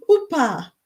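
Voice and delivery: Upa with a laugh, high and playful. Shown as a demonstration. Teaching viewers the Cypriot word, laughing on Upa. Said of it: "the first one is upa".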